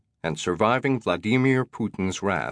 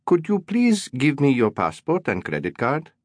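precise, polite hotel manager; each English word placed carefully; 6 semitones higher than usual. A narrator's reading. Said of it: "He spoke in careful English".

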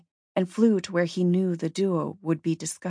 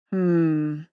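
muttered hmm; 4 dB louder than usual. Acted. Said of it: "he muttered".

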